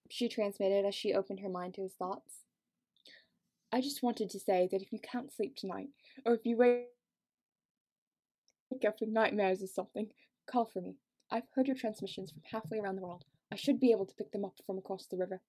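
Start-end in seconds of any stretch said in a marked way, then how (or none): 3.7-15.4 attempted British accent. Fitz offers Sophie help with nightmares, attempted British accent. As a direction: try an improvised British accent, quietly. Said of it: "I don't know what this accent is".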